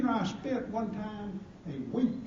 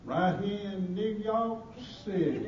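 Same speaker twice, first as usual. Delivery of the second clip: slow, drawn-out deadpan retort; acted deliberate reply, unhurried; deliberate answer. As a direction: stretch it out for the punchline. Deadpan answer to nosy questioner.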